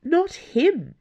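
high, slow, startled realization; blurted. A narrator's reading. Dana realizing the prisoner is an impostor, blurting it out. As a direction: blurt it out, pitch leaping up. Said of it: "she blurted".

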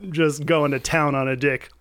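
usual speaking voice

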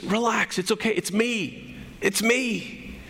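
soothing, unscolding Jesus; gentle reassurance. Retold or imitated. Jesus calming frightened men in the boat, gently reassuring. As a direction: reassure frightened friends softly. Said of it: "he was not scolding them".

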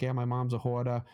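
comedian's Boston accent, imitated; thick Boston accent. Retelling a comedian's hoarder bit in a Boston accent. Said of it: "he's got a really thick Boston accent".

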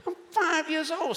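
high, laughing outrage; high-pitched incredulous laugh. Real, not acted. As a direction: laugh it out in disbelief. Laughing disbelief.

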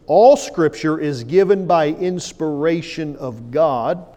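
slow, weighty reading of the text; solemn public reading of scripture. Acted. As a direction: read each phrase deliberately, slowly. Reads King James text.

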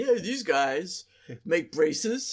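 slow, deliberate football coach. Acted. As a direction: talk like a coach rallying the team. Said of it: "that's your coach voice".

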